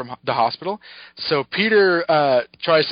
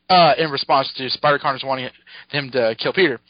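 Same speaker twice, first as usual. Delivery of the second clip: ordinary talk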